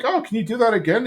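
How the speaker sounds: put-on high, fast, eager kids' voice; excited kids. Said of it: "then they're like".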